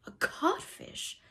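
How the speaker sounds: high, slow, dumbfounded question; blank echo. A narrator's reading. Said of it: "Hook echoed blankly".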